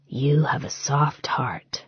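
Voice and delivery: slow, unvoiced whisper; whispered tenderness to his fiancée; soft whisper. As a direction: breathe it tenderly to her.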